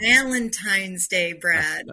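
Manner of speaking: "Valentine's Day" drawn out slowly and loud; emphatic disbelief. Real, not acted. Telling listener of the organ date, slow stress on "Valentine's Day". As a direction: stretch every beat of "Valentine's Day". Exclaiming over the date offered.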